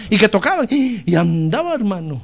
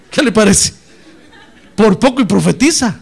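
chuckles through the question; real laugh as he asks; 8 dB louder than usual. Real, not acted. Preacher laughs at his story.

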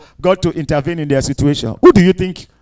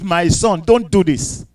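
gentle warning; 3 semitones lower, 6 dB quieter, slower than usual. Acted. God gently warns.

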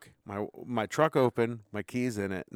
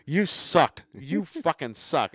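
mocking jeer; 5 semitones higher, 3 dB louder, much slower than usual. Friend keeps mocking him.

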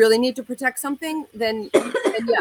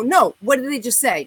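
louder, insistent retold demand; 5 semitones higher, 5 dB louder than usual. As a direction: press the question, refusing to drop it. Insisting to friend, angrier.

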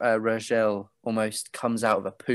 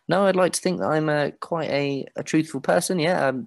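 put-on nervous boy; 5 semitones higher than usual. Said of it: "And he goes".

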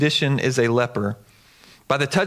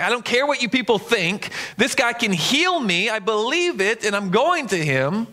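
defiant; 5 semitones higher than usual. Acted. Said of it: "He didn't care anymore".

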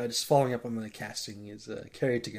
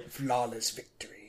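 announcer voice; 5 dB quieter than usual. Retold or imitated. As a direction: announce it like a fighting game. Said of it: "spitting out of the Mortal Kombat lines".

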